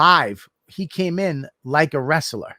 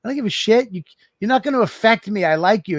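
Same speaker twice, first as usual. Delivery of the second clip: higher, tossed-off I don't give a shit; much higher casual bluntness; blunt reassurance; 6 semitones higher, faster than usual. Retold or imitated. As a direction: shrug it off while insisting. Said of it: "I'm like".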